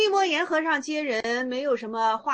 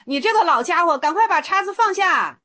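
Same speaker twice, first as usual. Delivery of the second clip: louder, higher mock scolding; stern rebuke; 5 semitones higher, 6 dB louder than usual. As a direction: tell the old monk off sharply. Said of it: "玄觉还说了". (大声呵斥老和尚)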